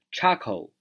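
"charcoal" with the weight on "char", lighter "coal"; stress on first syllable. Shown as a demonstration. Teacher showing learners the word, "charcoal" stressed on its first syllable. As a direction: lean on the front of "charcoal". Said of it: "重音在最前面".

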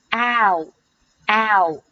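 "ow" sounded alone as a full gliding vowel; "ow" pronounced carefully on its own; diphthong demo. Shown as a demonstration. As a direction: isolate "ow", gliding to an oo ending. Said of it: "前面一个元音".

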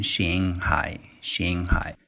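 slow English Shanghai with an ang ending. Shown as a demonstration. Teacher tells learners to say Shanghai the English way, slow. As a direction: slowly say Shanghai as an English word. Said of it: "你可以把它读成".

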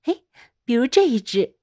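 put-on gentle storybook voice for kids; reading to a toddler. A narrator's reading. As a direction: read it sweetly to a little child. Reads a dog story to kids.

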